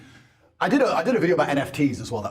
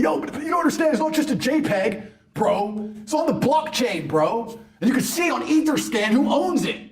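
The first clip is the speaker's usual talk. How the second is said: mocking crypto bro; 6 semitones higher than usual. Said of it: "people were saying to me".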